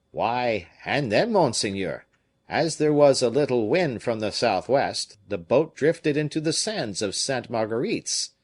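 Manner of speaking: put-on a fisherman excusing himself in a Provençal accent. Fisherman answering Raoul in a Provençal accent. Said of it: "with his Provençal accent".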